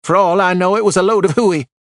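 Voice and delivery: loud, high scoffing; scornful outburst. A narrator's reading. Widow scoffing at the detective's claims, loud and scornful. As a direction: dismiss it with contempt. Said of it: "she snapped".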